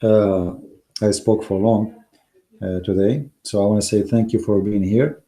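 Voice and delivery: low, worn-out hoarse voice. Real, not acted. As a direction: voice going after long talk. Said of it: "I'm losing my voice".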